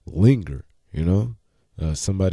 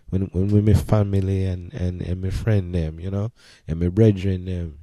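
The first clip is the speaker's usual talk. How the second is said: relaxed Jamaican patois; Jamaican accent. Shown as a demonstration. Talk of family and brethren, in a Jamaican accent. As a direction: chat in Jamaican, as with close friends. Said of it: "this how I chat".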